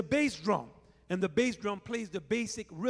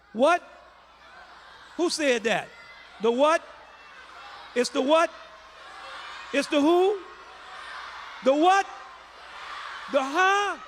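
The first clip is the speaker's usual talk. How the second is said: mock disbelief; 8 semitones higher, 6 dB louder than usual. Teasing crowd to shout louder.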